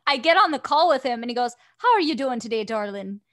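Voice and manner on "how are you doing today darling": lilting mock Irish greeting; imitated Irish accent. Colleague greeting her on a call, Irish accent. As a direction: lightly put on an Irish accent. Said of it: "this is the most adorable accent ever".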